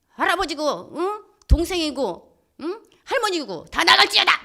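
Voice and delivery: loud, high rebuke of spirits; preacher's commanding shout, re-enacted; retold exorcism command. Retold casting out of evil spirits.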